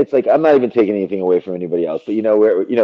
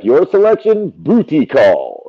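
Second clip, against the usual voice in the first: slow, drawn-out announcer read of booty call; lightly voiced movie announcer; Moviefone announcer impression; 5 semitones higher, slower than usual. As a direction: drag out the title like the old phone-line host. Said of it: "he would do".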